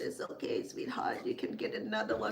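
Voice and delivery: hushed and tender; soft comforting whisper. Retold or imitated. Mother soothing her upset daughter, in a soft whisper. Mom comforting after lost jewelry.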